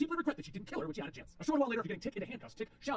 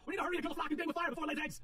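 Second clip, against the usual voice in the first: shouting; 8 semitones higher than usual. A narrator's reading.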